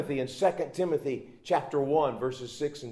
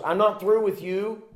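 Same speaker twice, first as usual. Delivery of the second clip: firm rally; 7 semitones higher, 4 dB louder than usual. Acted. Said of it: "the Lord was saying to him".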